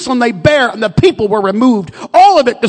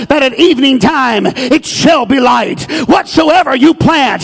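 preaching shout; 4 dB louder than usual. Acted. Preacher exhorts the congregation.

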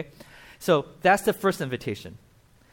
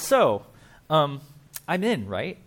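a little louder, eager, fishing for a yes; hopeful nudge, sure he's on the list; hopeful asking; 3 dB louder, slower than usual. Retold or imitated. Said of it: "He's like".

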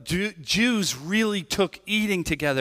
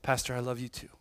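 weak voice; 3 semitones lower, 7 dB quieter, faster than usual. Retold or imitated. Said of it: "loudest thing he said".

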